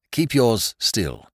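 slow, calm and steady; steady him with a slow voice; slow steady reassurance. Acted. Bunter steadying Peter in mud.

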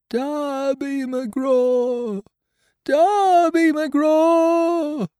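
eerie spirit calling out across the island; ghostly wail. Acted. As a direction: wail the name over and over like a ghost. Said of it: "it wailed".

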